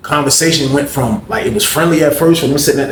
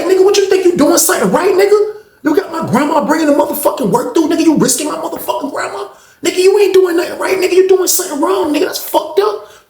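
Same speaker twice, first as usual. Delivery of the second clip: shouting. Retold or imitated. Grandson shouts at Terrence over his grandma. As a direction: yell it in his face.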